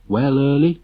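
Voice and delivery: lightly voiced gloomy friend; mournful greeting. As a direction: sigh it out hopelessly. Late greets Early mournfully.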